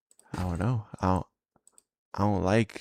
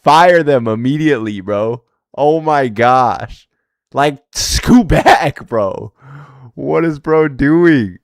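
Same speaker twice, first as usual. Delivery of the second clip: higher, slow, incredulous ranting; laughing disbelief; 3 semitones higher than usual. Real, not acted. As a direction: drag it out in amused disbelief. Mocking bad filmer, laughing.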